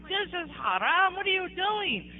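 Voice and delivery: high, indignant protest; retold anger. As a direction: replay an outraged challenge to the sheikh. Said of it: "I was so mad".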